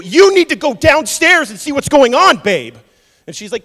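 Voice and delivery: high, loud mock frailty; husband pretends he is too frail; hammed-up weakling. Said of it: "What are we gonna do?".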